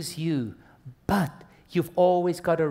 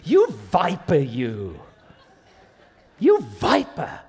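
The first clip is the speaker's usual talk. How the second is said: mock threat; 3 semitones higher, 5 dB louder than usual. Acts out boaster's threat, mock insult.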